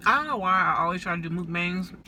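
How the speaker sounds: talking with a mouth full; words round a bite of food. Real, not acted. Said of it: "Talking with my mouth full".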